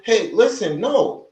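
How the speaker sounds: a high, firm putting-your-foot-down no. Pretend. Speaker to partner, showing how to refuse firmly. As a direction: set the boundary out loud.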